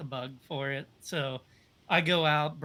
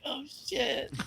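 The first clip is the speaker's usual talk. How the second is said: surprised swear; 12 semitones higher than usual. Retold or imitated. Teammate shocked, arm back in.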